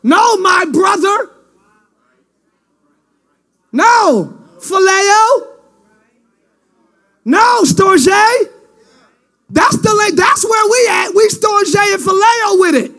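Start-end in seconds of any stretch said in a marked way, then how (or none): 0.0-8.1 pleading refusal. Acted. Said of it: "She said".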